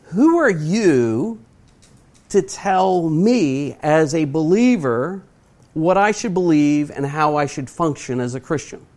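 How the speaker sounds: mock indignant retort. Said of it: "it just makes me mad".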